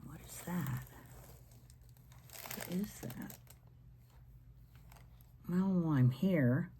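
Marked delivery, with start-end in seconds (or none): 0.1-0.8 what is that whispered under the breath; whispered question. Real, not acted. Puzzled question, whispered then voiced. 2.5-3.3 What is that asked aloud, higher, curious; puzzled question. Real, not acted. Puzzled question, whispered then voiced.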